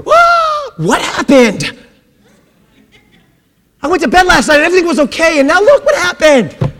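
high, startled mock panic; mock surprise. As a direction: play a flustered God waking up. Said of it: "God did not wake up and go".

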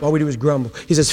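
normal talking voice

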